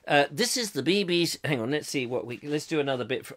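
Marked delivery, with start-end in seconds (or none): 0.3-1.4 lightly put-on BBC accent. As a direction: announce it in BBC English. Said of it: "another bit of the B B C".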